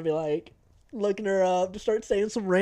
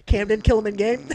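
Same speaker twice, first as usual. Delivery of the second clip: game commander order; 4 semitones higher, 6 dB louder than usual. Retold or imitated. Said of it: "He goes".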